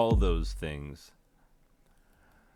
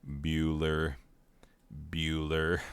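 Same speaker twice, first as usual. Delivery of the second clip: monotone roll call; 3 semitones lower than usual. Shown as a demonstration. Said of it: "it is more like this".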